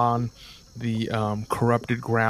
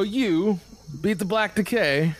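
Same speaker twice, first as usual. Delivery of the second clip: higher, sneering thug voice; mocking mercenary; 4 semitones higher than usual. Mercenaries ridiculing the paladin's claim. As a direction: ridicule the boast. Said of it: "They'll all laugh and go".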